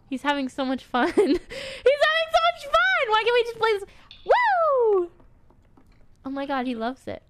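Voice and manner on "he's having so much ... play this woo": high, laughing delight; laughing squeal. Real, not acted. Delighted by the gnome's fun, high laughing squeal. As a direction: gush through a laugh.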